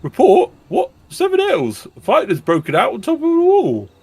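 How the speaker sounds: urgent soldier report. Acted. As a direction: report the attack in alarm. Voices a panicked soldier report.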